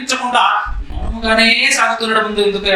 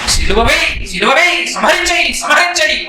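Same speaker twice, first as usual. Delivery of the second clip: chanting crowd, climbing higher as it repeats; mob cry; 4 semitones higher than usual. Acted. Crowd demanding crucifixion of Jesus, mob cry. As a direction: imitate a mob's insistent cries, building.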